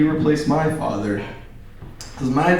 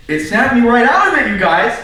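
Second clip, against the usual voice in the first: high, loud burst of excitement; excited; 10 semitones higher, 6 dB louder than usual. Acted. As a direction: snap out of it, thrilled. Climax of the story.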